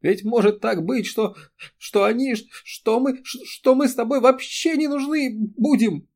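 high, broken, weeping plea; crying harder. A narrator's reading. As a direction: stammer through bitter tears. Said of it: "Эри заплакала ещё горше".

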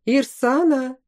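lightly voiced call to his wife. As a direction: call the wife from across the yard. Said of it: "крикнул он".

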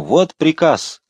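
high, triumphant call; shout. A narrator's reading. Coadjutor waving the order at the window, high shout. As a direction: ring it out high to a crowd. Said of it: "крикнул он".

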